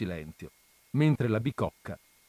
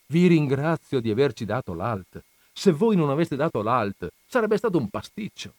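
raised, louder, emphatic gratitude; priest's fervent thanks; 4 semitones higher, 5 dB louder than usual. Acted. Don Camillo kneels before Christ at the altar, fervently grateful. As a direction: thank him earnestly with lively emphasis.

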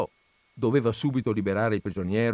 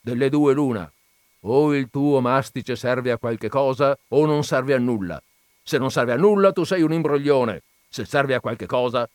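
a louder, pressing, hammered ultimatum; stern landowner; 3 semitones higher, 5 dB louder than usual. Acted. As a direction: corner the man in the jar word by word. Zirafa lays out the dilemma.

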